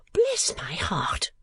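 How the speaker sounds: gasp, then a slow, breathy exclamation; startled cry. A narrator's reading. Mother surprised by visitors at the door, startled cry. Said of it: "cried Missus Nickleby".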